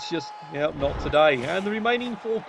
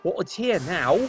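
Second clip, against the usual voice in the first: lightly voiced grumbling coach; a hint of an exasperated coach, slowed down; voicing the coach; 4 dB louder than usual. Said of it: "And he's kinda going".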